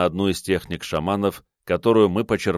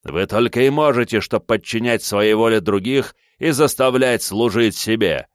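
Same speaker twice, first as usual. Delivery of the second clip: angry accusation; 4 semitones higher, 4 dB louder than usual. Acted. Villain accusing shamans.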